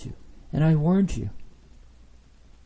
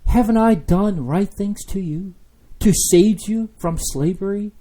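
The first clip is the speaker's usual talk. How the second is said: raised, higher reproach; God's reproach; 5 semitones higher, 4 dB louder than usual. Acted. Preacher voicing God to his people, raised reproach. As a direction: remind them what he did.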